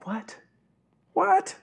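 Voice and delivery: high, sharp shocked question; can't believe what you just heard; rising stunned disbelief; incredulous what. Acted. Mock disbelief at response.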